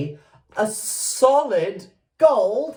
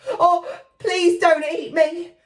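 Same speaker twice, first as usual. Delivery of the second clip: higher, frightened plea; pleading cry; 11 semitones higher, 3 dB louder than usual. Acted. Jack begs the giant in the giant's fist. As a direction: beg not to be eaten. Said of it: "cried Jack".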